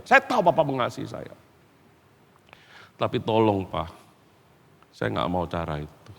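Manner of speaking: low, soft, halting appeal; subdued plea. Acted. Son begging Papa to love differently, subdued plea. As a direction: plead quietly, dropping low with pauses. Son pleading with father, acted.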